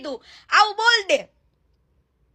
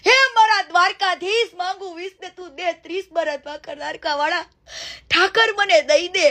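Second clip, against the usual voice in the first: mock devotional begging. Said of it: "આવી ભીખ માંગી લે".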